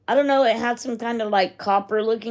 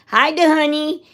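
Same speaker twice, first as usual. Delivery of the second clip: higher, louder, sing-song pet greeting; cooing at a dog; 7 semitones higher, 4 dB louder than usual. Retold or imitated. Greeting the friend's little Pomeranian, a cooing pet voice. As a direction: coo at the little dog like a baby.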